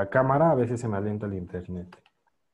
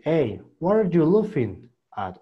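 English phrase; 4 semitones higher, 5 dB louder than usual. Shown as a demonstration. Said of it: "te dice".

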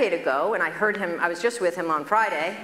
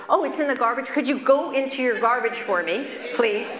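higher, sweetly pleading; 5 semitones higher than usual. Retold or imitated. Doctor asks patient to dig in trash, high pleading. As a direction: beg nicely. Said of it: "doctor pleads".

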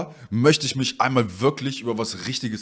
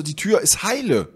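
slow, higher-pitched acted insistence; retold insistence; 6 semitones higher, slower than usual. Customer argues with courier about the door, insistent. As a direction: state it slowly, as in an argument.

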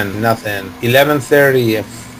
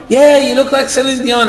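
retold passenger; 10 semitones higher than usual. Retold crowd joining in, higher.

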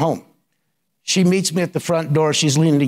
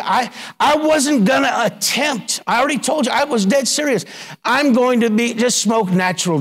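high, urgent preaching; fervent testimony; 6 semitones higher than usual. Real, not acted. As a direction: press the point with rising fervour.

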